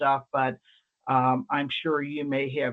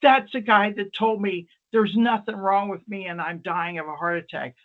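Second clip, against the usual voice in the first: accusing patient; 4 semitones higher, 5 dB louder than usual. Retold or imitated. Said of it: "she goes".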